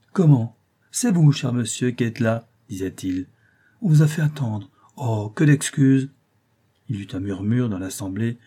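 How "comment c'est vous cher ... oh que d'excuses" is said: a lightly voiced fawning Dutch couturier; eager couturier. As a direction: gush over the favoured client. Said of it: "avec un empressement marqué".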